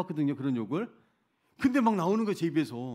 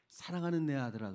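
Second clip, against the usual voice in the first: gently lowered, understated address; tender retold reply; 2 semitones lower, 3 dB quieter than usual. God answers the complaining missionary, tender. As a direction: speak softly as a loving father, retold.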